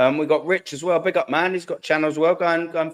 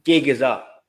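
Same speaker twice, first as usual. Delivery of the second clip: put-on a quick first stab at Matty's accent, a bit louder; 4 dB louder, slower than usual. Streamer quoting Matty the Southern Gooner, in his accent. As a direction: toss out the catchphrase in Matty's accent. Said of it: "Or as Matty the Southern Gooner would say".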